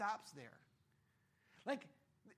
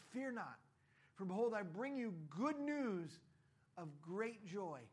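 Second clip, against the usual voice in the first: slow, reverent proclamation; slowly proclaiming the angel's message; solemn scripture reading; 2 semitones lower, slower than usual. Retold or imitated. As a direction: announce it like scripture. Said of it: "And the angel said to them".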